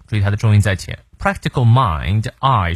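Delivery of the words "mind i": mind with a drawn-out, complete I glide; slow teacher's model of the I diphthong in mind; full diphthong. Shown as a demonstration. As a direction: stretch the long I in mind, then sound it alone. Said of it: "双音".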